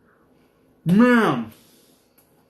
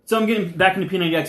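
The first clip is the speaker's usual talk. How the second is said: quick words through a mouthful; mouth full; 3 semitones higher, much faster than usual. Real, not acted. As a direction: chew and talk at once. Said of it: "I can talk with my mouth full".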